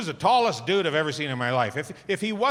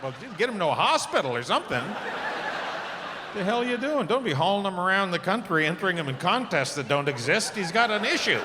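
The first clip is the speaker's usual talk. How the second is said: exasperated retort; 4 semitones higher than usual. Retold or imitated.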